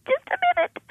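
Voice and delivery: very high, tight forced calm; strained high voice. Retold or imitated. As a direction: squeak it out holding it together. Mother stunned, buys time.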